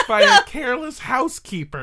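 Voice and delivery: laughing through the words; giggling at the absurd excuse. Real, not acted.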